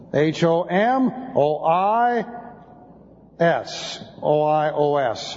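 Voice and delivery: HOMOIOS spelled letter by letter. Shown as a demonstration. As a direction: dictate each letter to the class.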